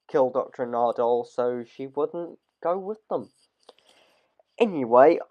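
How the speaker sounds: hoarse, tired voice going. Real, not acted. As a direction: voice wearing out, a bit hoarse. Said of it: "I am losing my voice".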